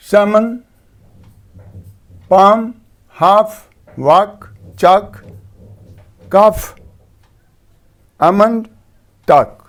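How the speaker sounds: each word said slowly and clearly, no L as in समन and पाम; silent letter demo. Shown as a demonstration. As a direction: list the words with the L dropped, as in वाक and चाक. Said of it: "एएल के बाद ... एल silent रहता है".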